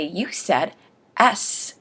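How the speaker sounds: lightly voiced automated phone system; a hint of robot operator; robot phone lady. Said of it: "the automatic system or robot lady would say".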